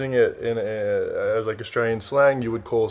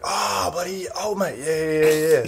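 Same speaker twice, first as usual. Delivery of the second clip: friend's glad reply; 7 semitones higher than usual. Retold or imitated. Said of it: "your friend will be like".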